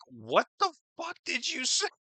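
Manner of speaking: high, surprised imitation with a laugh; baffled mock question. Imitating a stunned onlooker, high and laughing. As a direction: pitch it up and laugh through it. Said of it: "So it was like".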